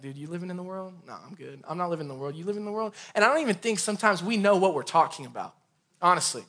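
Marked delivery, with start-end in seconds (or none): 0.0-2.9 mock Christian code talk. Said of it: "get in our little code language and be like".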